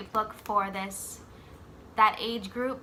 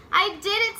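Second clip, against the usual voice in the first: higher, louder triumphant cry; boy thrilled with himself; 9 semitones higher, 6 dB louder than usual. Acted. Jabari telling his dad he did it, triumphant. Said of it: "said Jabari".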